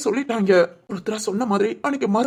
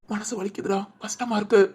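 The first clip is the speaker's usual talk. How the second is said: much softer, hurt confession; heartbroken; 3 dB quieter than usual. Acted. Guilty friend confides his heartache, softly broken.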